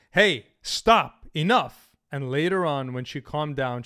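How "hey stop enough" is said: loud, clipped demand to stop; firm stop. Retold or imitated. Retelling telling a girlfriend to stop, loud firm command. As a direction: draw the line hard. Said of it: "told the woman".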